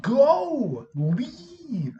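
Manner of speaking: high, loud, exasperated command; mock yelled order. Sub sending fighting girls away, high exasperated yell. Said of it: "I did that voice".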